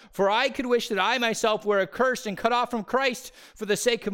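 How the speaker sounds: high, loud anguished scripture reading; impassioned reading. Acted. Preacher reading Paul's grief to the congregation, impassioned loud proclamation. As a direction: proclaim Paul's sorrow with full force.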